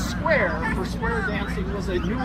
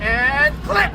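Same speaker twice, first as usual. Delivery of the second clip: sharp, louder snap on click; punchy click; 4 semitones higher, 6 dB louder than usual. A narrator's reading. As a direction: pop the click out. Narrator sounds lock opening.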